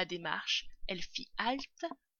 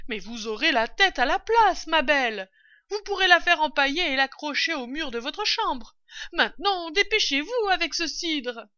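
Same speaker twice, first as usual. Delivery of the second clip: high, loud, projected reply; calling down; 9 semitones higher, 12 dB louder than usual. A narrator's reading. Mistress hurrying the servant with the cider, calling down. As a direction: holler down to the servant.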